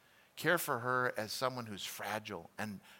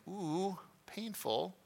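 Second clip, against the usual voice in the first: mock wince; 6 semitones higher, 5 dB quieter, much slower than usual. Reaction to scripture.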